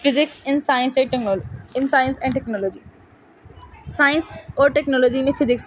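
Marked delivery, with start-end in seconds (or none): 0.1-2.8 very slow, restarting the heading; slow dictation. Shown as a demonstration. Teacher reading the chapter heading to students, very slow.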